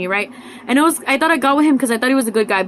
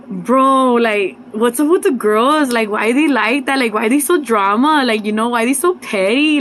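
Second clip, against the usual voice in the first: exasperated complaint; 4 dB louder, slower than usual. Retold or imitated. Complaining to her guy friend about petty girls, drawn out and exasperated. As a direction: stretch each why in disbelief.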